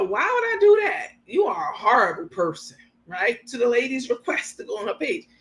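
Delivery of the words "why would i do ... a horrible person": mock Carmen. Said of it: "Carmen gonna say to her".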